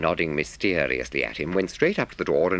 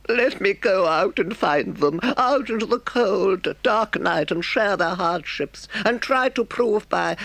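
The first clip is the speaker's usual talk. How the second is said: high, earnest Toad voice; a toad overdoing his remorse; repentant Toad; 4 dB louder than usual. A narrator's reading. Toad begs Rat to let him find friends, mock earnest.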